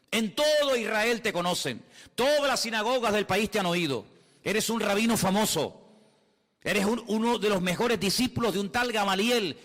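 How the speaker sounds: divine commissioning. Acted. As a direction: proclaim it as the Lord commissioning his apostle. Voices the Lord commissioning Paul.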